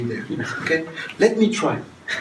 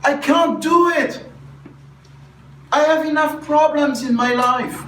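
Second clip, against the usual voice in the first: mock exhausted venting; 11 semitones higher than usual. Shown as a demonstration. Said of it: "you go to say".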